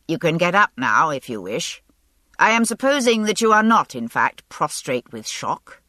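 a touch of dry irony; ironically. Acted. Lord John telling the pretending woman to get up, dryly ironic. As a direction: tease her lightly, knowing she's faking. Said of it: "he added ironically".

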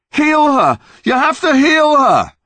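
high furious yelling; angry shout. Acted. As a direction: scream it at the monster, furious. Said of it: "pounding away".

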